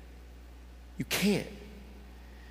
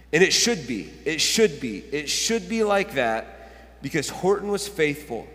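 emphatic storybook ending; 2 semitones lower than usual. A narrator's reading. Pastor reads Horton's happy ending, measured and emphatic. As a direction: land each repeated phrase deliberately. Reads book's closing lines.

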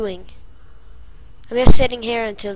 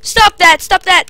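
higher, louder frantic repeats; frightened pleading; 8 semitones higher, 9 dB louder than usual. Real, not acted. Streamer begging the monster, frantic. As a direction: beg it to stop in fright.

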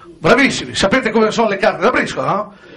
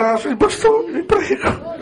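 mock anguish; 2 semitones lower than usual.

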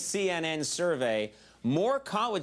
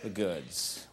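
low, slow and hushed earnestness; mock sincerity; 6 semitones lower, slower than usual. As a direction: play it close-up sincere, slowly. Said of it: "that means I'm sincere".

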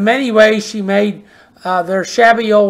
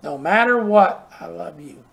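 tender, fading to a hush; 3 semitones lower than usual. Retold or imitated. Preacher quoting his mother, tender and fading low. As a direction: soften it and let the love words fall away. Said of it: "she said".

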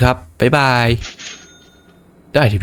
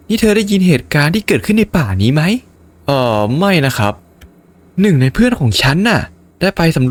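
higher voice telling an eerie forest tale; woman NPC voice; 8 semitones higher than usual. Acted. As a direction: tell it like a worried townswoman. Voicing woman NPC's tale. (เสียงผู้หญิงเล่าเรื่องป่าน่ากลัว)

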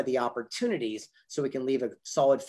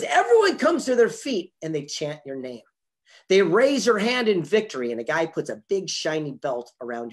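rousing retold victory; 3 semitones higher, 6 dB louder than usual. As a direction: build the winning moment like a motivational speaker. Retelling boxer describing victory moment.

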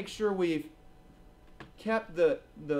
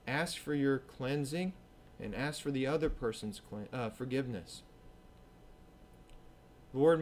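closing prayer; 2 semitones lower than usual. Acted. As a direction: pray humbly for the congregation.

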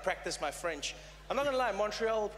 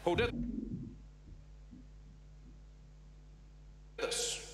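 halting presidential impression with long pauses; Barack Obama. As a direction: weigh each phrase, then talk tough like a president. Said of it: "Barack Obama, he was there, he's like".

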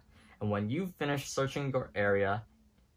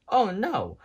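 high, louder cry of dismay; panicked wail; 10 semitones higher, 6 dB louder than usual. A narrator's reading. Rex fearing for Ham, high panicked oh no. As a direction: moan in fright.

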